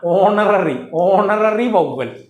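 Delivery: very slow, stretched ഓണററി; teacher slowly emphasizing ഓണററി; drawn-out key term. Shown as a demonstration. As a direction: draw out ഓണററി for the learner. Teacher stresses a new term.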